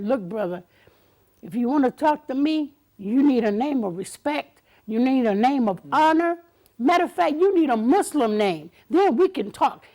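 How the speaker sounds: mock-stern scolding; firm lecture. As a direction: lay down the law to him. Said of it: "I was talking, saying".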